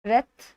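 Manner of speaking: रेथ with a short e; mispronunciation demo. Shown as a demonstration. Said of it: "ये क्या है". (गलत उच्चारण: रेथ, छोटा ए)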